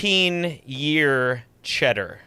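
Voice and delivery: slow, grand announcement; dramatic reveal. Real, not acted. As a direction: unveil it like a prize.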